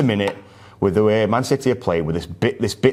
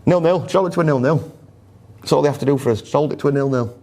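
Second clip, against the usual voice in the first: excited urging; 7 semitones higher than usual. Real, not acted. Urging team to hold draw.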